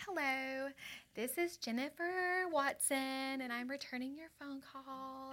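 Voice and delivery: a hint of a sweet, slow phone voice. Leaving a voicemail for Kent, lightly sweet phone voice. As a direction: lightly put on polite phone manners. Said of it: "I turned my phone voice on".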